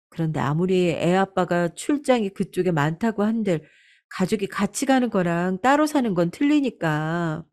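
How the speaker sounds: lightly voiced daughter-in-law, lilting and tentative; hesitant daughter-in-law. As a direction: broach a delicate proposal to mother-in-law. 큰며느리가 조심스레 미국행을 꺼냄. (조심스럽게 말을 꺼내는 며느리)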